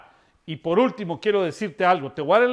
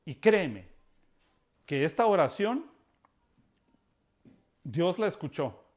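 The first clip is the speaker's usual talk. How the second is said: prayer; 2 semitones lower than usual. Acted. Pastor prays for listeners.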